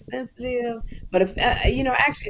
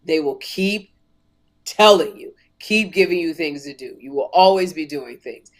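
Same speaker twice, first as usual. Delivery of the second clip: lower, grave talk-show mentor voice; Oprah Winfrey impression; 6 semitones lower than usual. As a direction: warn her like a wise host. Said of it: "She said".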